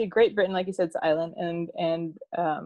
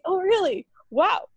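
much higher, eager reaction; mock excited; 9 semitones higher than usual. Telling a coworker about her friend, mock excited. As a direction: gush like you just found a link.

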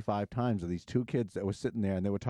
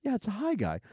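pushy greeter; 10 semitones higher than usual. Retold or imitated. Greeter voiced again.

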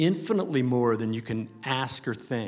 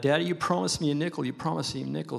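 put-on whiny kid voice; 4 semitones higher, much faster than usual. Child nagging father.

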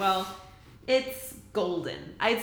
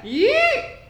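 excited yell; 11 dB louder than usual. Real, not acted. Exuberant sign-off.

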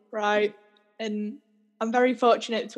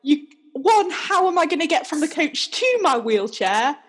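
higher-pitched, emphatic listing of objections; retold indignant protest; 4 semitones higher than usual. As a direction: argue the points, exasperated. Retold protest to bus driver.

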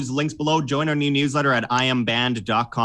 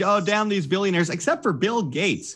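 mocking leftist; 6 semitones higher than usual. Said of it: "people on the left are like".

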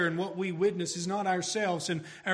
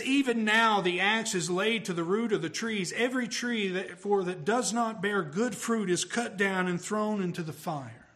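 urgent scripture reading, pitched up; 3 semitones higher than usual. Retold or imitated. Preacher quotes the Baptist warning his hearers, urgent. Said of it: "Do you see the urgency in his voice".

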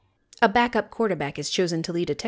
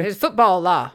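hammed-up West Texas drawl; West Texas accent; 5 dB louder than usual. Telling co-host about West Canaan, mock Texas accent. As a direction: put on a bad small-town Texas accent. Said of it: "do a terrible Southern accent".

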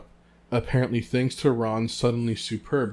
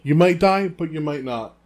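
Hagrid; 7 semitones higher, 10 dB louder than usual. Retold or imitated. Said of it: "It's not the first time he said it".

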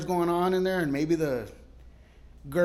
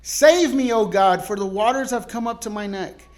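earnest plea; 5 semitones higher, 8 dB louder than usual. Retold or imitated. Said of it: "where the word of God reads".

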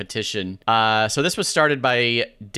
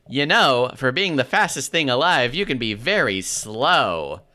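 Jon Lovitz voice. Acted. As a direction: stretch the last words in a mild comic impression. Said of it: "saying them in a Jon Lovitz voice".

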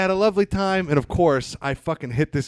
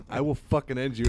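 mock threat. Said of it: "and I'm like".

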